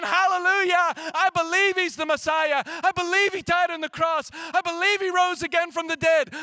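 loud, joyful shouted praise; jubilant hallelujah. Retold or imitated. Believers jumping up and down, shouting joyful praise. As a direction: cheer it out like a believer jumping for joy. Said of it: "jumping up and down saying".

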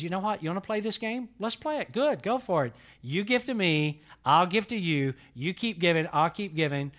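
playful challenge. Acted. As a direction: throw down a friendly dare, punching each short phrase. God playfully proposing a giving game.

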